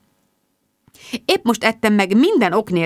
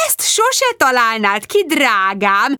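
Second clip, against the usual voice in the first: gushing mum; 3 semitones higher, slower than usual. Acted. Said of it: "Anyu fantasztikus volt".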